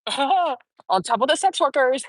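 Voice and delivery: slow, laughing through the words. Real, not acted. Amused at her own list of affairs, laughing. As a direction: chuckle as you repeat it.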